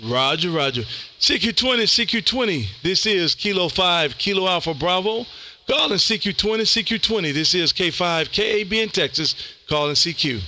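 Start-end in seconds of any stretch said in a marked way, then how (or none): 1.2-10.4 radio CQ call. Acted. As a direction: announce the call sign like a radio operator.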